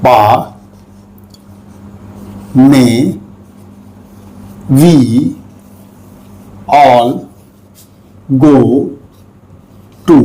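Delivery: each word spoken separately and slowly; slow dictation. Shown as a demonstration. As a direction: read out word by word with long pauses. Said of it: "देखिए".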